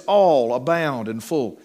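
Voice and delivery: "all", "abound", "full" slowly weighted; slow quote stressing "all", "abound" and "full"; stress on three words. Shown as a demonstration. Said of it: "make emphasis of those three words".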